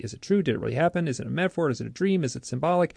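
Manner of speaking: high, rising singsong list from "true" to "symbolic"; rhetorical questioning. Acted. Author listing doubts about his memory, questioning. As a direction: lift the pitch on each question, ending "symbolic" upward. Lists doubts he avoids dwelling on.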